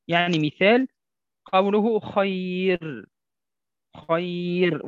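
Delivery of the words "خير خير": خير with a thin, light ra, slow. Shown as a demonstration. Teacher shows light ra to students. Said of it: "ولا نقول خير".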